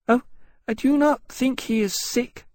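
sad little dragon in a high voice; high, forlorn small-creature voice; Levitas. A narrator's reading. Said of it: "Levitas said with that same sadness".

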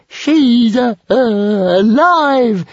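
high, loud joyful shriek; stammer, then yell it out in delight; happy yell. A narrator's reading. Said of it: "yelled Toothless happily".

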